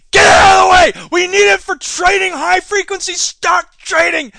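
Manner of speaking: loud, high, shouting bully; pushy trader. Acted. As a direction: shove the nerds aside. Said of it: "the stock people will come along and go".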